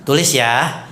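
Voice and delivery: slow, boastful listing of gifts; lightly voiced bragging donor; mock show-off giver. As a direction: play a donor bragging about her charity. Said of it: "nggak usah perlu sebut-sebut".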